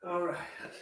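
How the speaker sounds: distant, muffled voice; off mic. Real, not acted. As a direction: talk from across the room. Far from mic.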